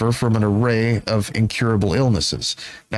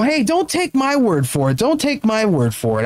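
high-pitched disclaimer; 9 semitones higher than usual. Real, not acted. Host handing over to a woman's view, high-pitched disclaimer. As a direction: voice pitched way up, protesting.

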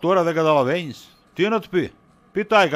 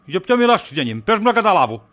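much higher, louder innocent protest; mock innocence; 4 semitones higher, 4 dB louder than usual. Husband plays dumb with his wife, much higher and louder. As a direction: play dumb, loudly.

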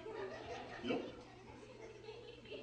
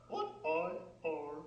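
puppet bird voice; 6 semitones lower, 8 dB quieter than usual. Acted.

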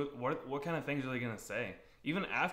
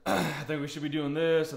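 pushy parent; 3 semitones higher, 5 dB louder than usual. Retold or imitated. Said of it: "parents that get upset".

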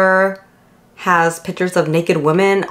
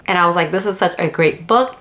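slight lisp from retainers. Real, not acted. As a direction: talk with a lisp. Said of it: "I'm lisping because I'm wearing my retainers".

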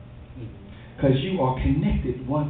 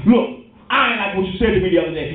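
fast, acted telling-off over the phone; worked up; faster than usual. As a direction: rattle off the complaint, all worked up. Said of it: "You get on the phone all worked up".

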